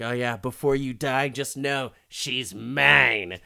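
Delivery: gloating villain. Retold or imitated. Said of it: "he's like".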